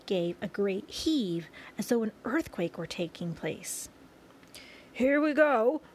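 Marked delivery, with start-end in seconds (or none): 4.9-5.8 high, loud, thrilled call; excited shout. A narrator's reading. Old green grasshopper to everyone as the room lurches, excited shout. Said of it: "shouted the old green grasshopper".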